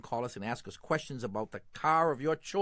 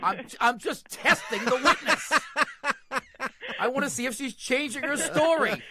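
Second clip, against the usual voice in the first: high, loud, laughing protest; laughing tease; 9 semitones higher, 4 dB louder than usual. Real, not acted. Host jokes about testing the caller, laughing loudly. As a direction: tease her while cracking up. Joking cross-examination of the caller.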